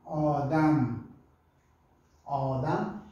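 Odam with an open o, slow; pronouncing Odam. Shown as a demonstration. Teacher giving the pronunciation Odam. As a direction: say Odam clearly. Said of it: "a pronúncia seria Odam".

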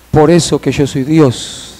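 subdued, slow reply; a touch of weeping restraint; retold tearful sorrow. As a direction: say it gently, with understated grief. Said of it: "el Señor llorando".

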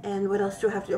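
out of breath from the stairs; breathless, still winded from climbing. Real, not acted. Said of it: "I'm out of breath 'cause I haven't climbed up the stairs".

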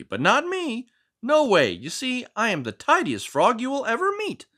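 lightly voiced proud tidy frog; a neat little frog showing off his book; Finn the Frog.

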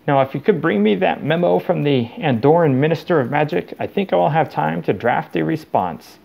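lightly voiced self-satisfied official; Mister Crouch. Gabbling proudly to imagined assistant.

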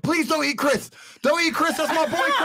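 high, pleading whine of a desperate man; panicked, high-pitched pleading; begging man. Retold or imitated. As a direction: beg for your gummy bear friend's life. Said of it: "And he'd be like".

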